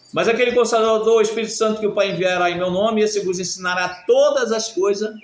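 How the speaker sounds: loud, high scripture proclamation; leitura bíblica. Real, not acted. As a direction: proclaim the verse to the whole congregation. Reads scripture aloud to congregation. (versículo proclamado em voz alta e aguda)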